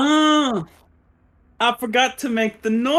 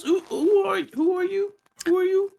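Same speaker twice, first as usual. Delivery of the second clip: much higher, pushy question; high challenging Timmy voice; 12 semitones higher than usual. Acted. Timmy Smalls challenges the doctor in a high cocky voice. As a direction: demand to know who he is, pitched up.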